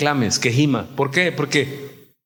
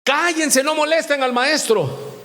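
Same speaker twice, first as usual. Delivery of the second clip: scolding; 4 semitones higher than usual. Acted. Acted crowd hushing the blind men.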